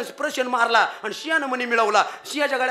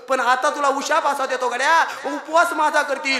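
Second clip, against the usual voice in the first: lightly acted god's proclamation, higher than usual; गणपतीचा उशाप; 3 semitones higher than usual. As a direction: pronounce it emphatically as a god granting reprieve. गणपतीचं चंद्राला उशाप देणं. (किंचित उंच आवाजात देवाची ठाम घोषणा)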